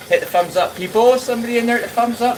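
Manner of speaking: rally the chat like a hype man; hyped call-out. Real, not acted. Streamer urging chat to like.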